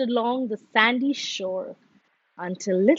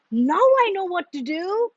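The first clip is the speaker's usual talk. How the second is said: higher, bright burst of an idea; excited cry; 6 semitones higher than usual. A narrator's reading. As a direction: it dawns on you, say it eagerly. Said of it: "he cried".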